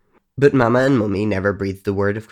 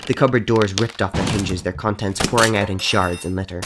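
plain reading voice

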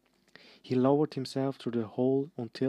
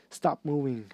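ordering; 3 semitones higher, 4 dB louder than usual. Acted. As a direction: order them to stop. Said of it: "Hermione ordered them".

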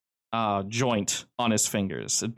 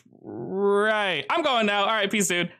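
Joe talking; 10 semitones higher, slower than usual. Acted. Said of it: "And he goes".

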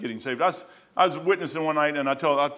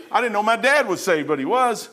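excited; 6 semitones higher, 4 dB louder than usual. Retold or imitated. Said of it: "She was excited".

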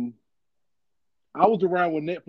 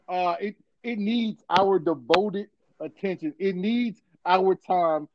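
slow dramatic buildup; slower than usual. Acted.

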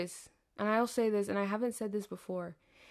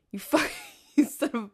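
laughing insult; 3 semitones higher, 5 dB louder than usual. Retold or imitated. Playful insult to roommate.

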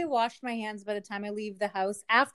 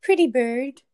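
parrot voice; 3 semitones higher, 9 dB louder, slower than usual. Pretend. Mimicking a parrot.

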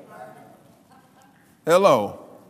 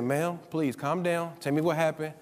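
retold soothing; 2 semitones lower, 5 dB quieter than usual. Minister to panicking caller on prayer line, soft and calming. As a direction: gently settle an upset caller.

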